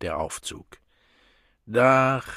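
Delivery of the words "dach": higher, louder cracked call. Acted. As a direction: call out the floor in a cracked old voice. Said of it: "rief eine brüchige Stimme".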